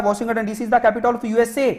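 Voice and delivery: every word stretched out slowly; measured, very slow dictation. Shown as a demonstration. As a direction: read the exam sentence out slowly for writing. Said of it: "ये सवाल पूछा जाता है".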